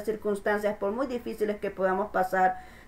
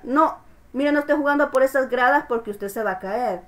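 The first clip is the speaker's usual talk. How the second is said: put-on a touch louder, more insistent warning to the child; insistent parent warning; 2 semitones higher, 3 dB louder than usual. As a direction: repeat the warning with firmer insistence. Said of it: "cuando tú le dices al niño". (advertencia insistente de un padre)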